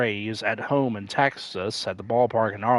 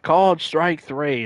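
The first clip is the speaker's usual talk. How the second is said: slow, higher and louder, stretching each word; mock announcer disbelief; 6 semitones higher, 5 dB louder than usual. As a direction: quote the call as if you can't believe it. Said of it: "and he's like".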